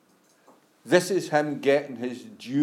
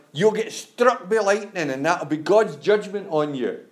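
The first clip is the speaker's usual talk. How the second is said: put-on old wifey; 4 semitones higher, 3 dB louder than usual. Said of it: "the old wifey".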